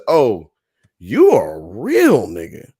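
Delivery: a British girl's exclamation, put on lightly; imitating British accent. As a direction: drawl it like a London girl. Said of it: "crazy British accent".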